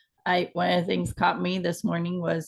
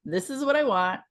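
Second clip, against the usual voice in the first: higher, firm and resolute; determined; 6 semitones higher than usual. Retold or imitated. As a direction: state it like nothing will change your mind. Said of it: "setting the intention of".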